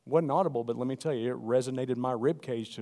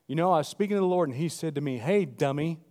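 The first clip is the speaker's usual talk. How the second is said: louder, fast mock of a preacher; mocking minister quote; 4 semitones higher, 6 dB louder than usual. Preacher mocking ministers, louder mock quote. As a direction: lampoon how ministers claim God talks. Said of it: "They'll say it like this".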